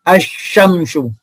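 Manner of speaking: slow drawn-out asyamsu with the lam silent; Quranic reading. Shown as a demonstration. Teacher modelling asyamsu for pupils, slow and drawn out. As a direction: read asyamsu slowly, merging the lam into the shin.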